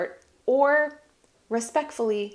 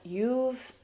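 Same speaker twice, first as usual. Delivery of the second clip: slow, softer, hushed self-encouragement; soft whisper to yourself; 6 dB quieter, much slower than usual. Shown as a demonstration. Telling herself she can do it, slow hushed reassurance. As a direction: breathe it out gently to yourself. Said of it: "whisper to yourself".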